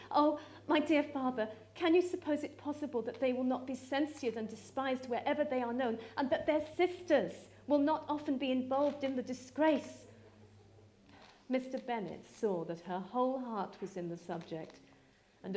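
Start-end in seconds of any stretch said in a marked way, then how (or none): 0.1-10.0 rising, louder appeal to her father; a daughter begging her father to rein in Lydia, urgent and pleading; earnest pleading. Acted. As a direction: plead with him, voice lifting.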